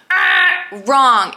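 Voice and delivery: loud playful "Ah, wrong"; cheeky loud correction; mock buzzer wrong. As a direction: snap out a game-show wrong. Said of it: "buzzer-like correction".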